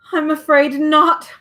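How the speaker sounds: sad. Acted. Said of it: "he replied sadly".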